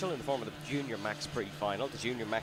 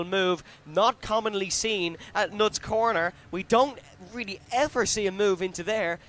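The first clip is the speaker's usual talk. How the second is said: excited commentator; 3 semitones higher, 3 dB louder than usual. Real, not acted. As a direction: call the pass with rising excitement. Unusual overtaking move, live call.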